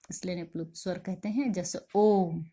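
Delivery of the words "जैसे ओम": ओम with the vowel held long; prolonged pluta vowel demo; drawn-out om. Shown as a demonstration. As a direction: stretch the ओ in ओम well past normal length. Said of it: "अ का उच्चारण कैसा? लंबा हो रहा है".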